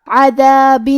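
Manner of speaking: عذاب with the ذ from tongue tip on upper teeth; tajweed demo word. Shown as a demonstration. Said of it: "کلمت عذاب میں دال کی ادائیگی". (عذاب تجوید کے ساتھ ادا کریں)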